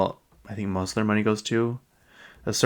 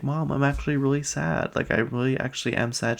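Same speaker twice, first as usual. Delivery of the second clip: a hint of a hurt kid, a bit higher; lightly voiced upset son; 6 semitones higher than usual. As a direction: mildly imitate a son protesting he's really sad. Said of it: "he's like".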